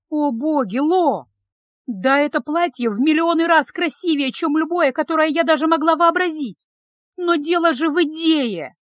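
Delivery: insist, flustered and earnest; passionate plea. A narrator's reading. Girl arguing passionately.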